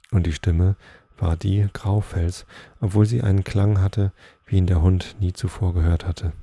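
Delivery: measured read-aloud storytelling voice; story narration. A narrator's reading. Reading Nils Holgersson to listeners, story narration. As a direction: read the tale out clearly, phrase by phrase.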